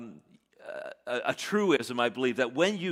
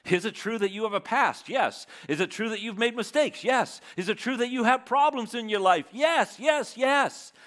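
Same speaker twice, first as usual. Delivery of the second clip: rising shout of yes; 6 semitones higher than usual. Real, not acted. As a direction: build the yeses up to a full shout. Preacher building to emphatic answers.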